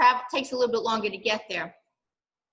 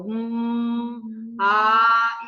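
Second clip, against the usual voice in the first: hum and ah demo. Shown as a demonstration. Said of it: "when you put your hand on here and you go".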